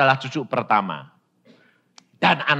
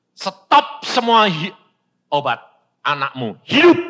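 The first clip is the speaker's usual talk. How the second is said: commanding voice of God; 3 semitones higher, 7 dB louder than usual. Retold or imitated. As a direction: deliver it as a divine order. God's word quoted.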